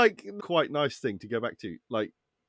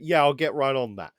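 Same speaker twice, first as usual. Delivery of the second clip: sarcastic inflection; 2 semitones lower than usual. Shown as a demonstration. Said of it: "if you turn to it".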